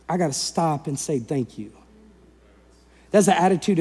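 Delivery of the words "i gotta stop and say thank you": soft, low voice of sudden realization; quiet, lowered, acted thankfulness; hushed gratitude. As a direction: play a man humbly stopping himself. Voicing the one grateful leper.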